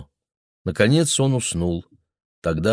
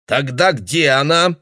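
put-on suspicious old man; 7 semitones higher, 4 dB louder, slower than usual. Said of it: "спросил он".

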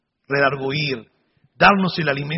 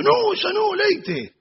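imitated earnest warning; slower than usual. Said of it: "Pero me lo dijo en serio".

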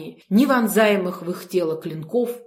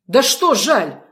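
sharp, louder snap; barked retort; 4 semitones higher, 6 dB louder, slower than usual. A narrator's reading. Margo barks at her sister, sharp and loud. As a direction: bark it back at your sister. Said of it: "гаркнула Марго".

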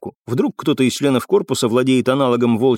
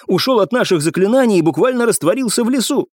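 higher-pitched, fervent protest; heated exclamation; 9 semitones higher than usual. A narrator's reading. Cadet explains to captain how he escaped, heated. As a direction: explain it hotly in your defence. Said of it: "горячо воскликнул курсант".

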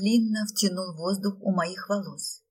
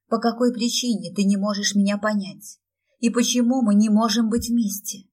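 louder, rising despair; плачущая мольба, громче; desperate plea; 3 semitones higher, 8 dB louder than usual. A narrator's reading. Girl pleading desperately. (отчаянная мольба)

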